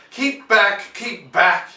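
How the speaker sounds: loud, high call to the crowd; shouted warning. A narrator's reading. Stent shouting at the crowd, a loud high warning. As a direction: bark it out, keep them back. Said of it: "I heard Stent's voice".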